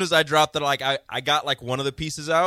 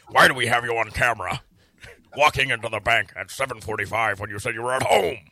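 put-on old-timey detective; 3 semitones lower than usual. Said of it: "I should be the voice of an old-timey detective cartoon".

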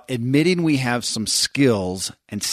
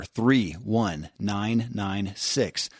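slow number readout; 2 semitones lower, 6 dB quieter, much slower than usual. Shown as a demonstration.

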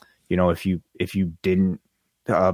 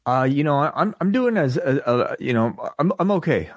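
halting, higher-pitched stammer with false starts; 6 semitones higher than usual. Real, not acted. Co-host answering how he is after rushing to go live, stammering. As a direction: trip over your words, restarting as you go. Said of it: "I'm stammering a little".

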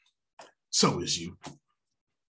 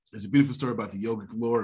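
fast restart; much faster than usual. Shown as a demonstration. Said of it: "Nah, nah".

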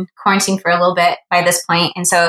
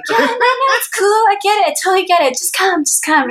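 much higher, breezy fake nonchalance; mock casual reassurance; 11 semitones higher than usual. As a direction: play it cool while clearly eager. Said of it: "And I'm like".

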